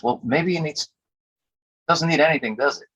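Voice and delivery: high, imitated musing that turns to realisation; puzzled reconsidering. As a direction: start doubtful, pause, then concede in surprise. Retold producer finding nothing to fix.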